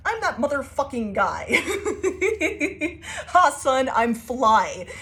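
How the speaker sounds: cocky laughing brag. Retold or imitated. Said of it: "you're just like".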